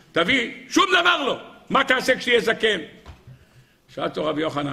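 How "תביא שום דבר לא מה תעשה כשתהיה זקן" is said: dismayed reproach. Acted. Disciple reproaches rabbi over old age.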